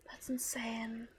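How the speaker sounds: whispered amazement; awed whisper. Real, not acted. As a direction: whisper in disbelief. Amazed at follower count.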